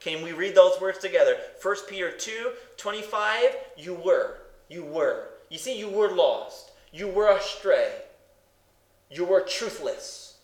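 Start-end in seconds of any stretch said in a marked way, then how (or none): 3.8-5.3 "were" set down deliberately, falling; stress on WERE. Shown as a demonstration. Preacher pointing out two words of the verse, stress on WERE. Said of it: "Can I emphasize those words to you?". 5.8-7.9 "were" leaned on as the key word; stress on WERE. Shown as a demonstration. Preacher reading the verse with the congregation, stress on WERE. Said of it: "Can I emphasize those words to you?".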